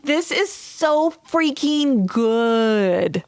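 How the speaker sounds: drawn-out, savouring each word; slow gushing delight. Retold or imitated. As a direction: stretch it out like you're swooning. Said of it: "I just was like".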